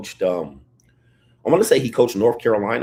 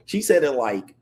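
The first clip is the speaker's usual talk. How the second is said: ordinary talk, nothing marked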